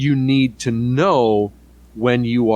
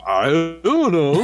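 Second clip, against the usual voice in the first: deadpan shrug; 6 semitones higher, much slower than usual. Retold or imitated. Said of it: "And BioWare said".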